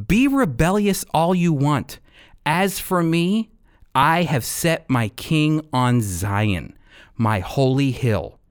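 slow, solemn reading of the psalm; scripture reading. Acted. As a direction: read the verses with weight. Voices God in verse six.

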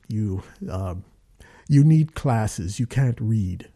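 lightly voiced stern director; a hint of a deep-voiced director, deliberate; measured, imitated put-down; booming director voice. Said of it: "it's like James Earl Jonesy".

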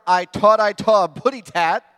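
loud baby-talk cartoon bird voice; Tweety Bird voice. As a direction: lisp it like Tweety.

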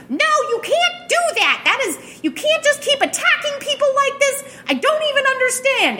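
high squeaky little creature, outraged; small creature voice. Acted. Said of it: "a much smaller voice".

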